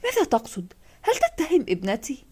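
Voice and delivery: a mild touch of worried tension; tense mother. Acted. Mother to the detective, defending her daughter, tense. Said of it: "أمي بتوتر".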